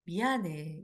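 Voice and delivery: low, soft, sincere sorry; heartfelt apology. Shown as a demonstration. Showing families how to apologize, heartfelt. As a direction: say sorry and truly mean it. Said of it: "마음의 진심을 담아서 같이 한번 해볼게요".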